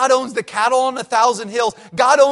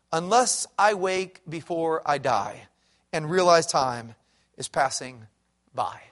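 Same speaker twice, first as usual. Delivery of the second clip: solemn poem reading. Acted. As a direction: read each line like a solemn warning. Reads a poem aloud.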